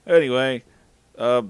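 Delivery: plain reading voice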